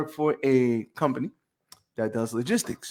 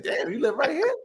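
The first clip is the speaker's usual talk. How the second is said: laughing surprise; 12 semitones higher than usual. Retold or imitated. Quoting himself amazed, laughing.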